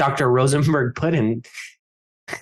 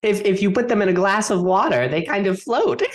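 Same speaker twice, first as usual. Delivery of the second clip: raised voice, pitched up; projected, higher-pitched repeat; louder repeat; 6 semitones higher than usual. Acted. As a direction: speak up for someone who can't hear. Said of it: "Say it louder".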